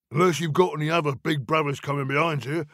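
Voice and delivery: fast threat rising to a loud peak; quick, menacing troll, climbing high. A narrator's reading. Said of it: "said the Troll".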